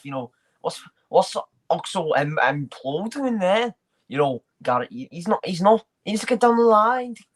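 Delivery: a hint of a gaffer blaming his players; manager impression. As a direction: mimic a manager's post-match interview. Impression of a manager after a match.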